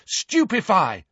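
high, drawn-out spell cry; shouted spell. A narrator's reading. Harry firing from under the desk, moderate shout. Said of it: "he shouted".

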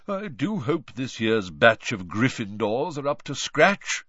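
lightly voiced proper ghost; prim ghost voice. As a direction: say it like a fussy old gentleman. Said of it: "said nearly headless Nick".

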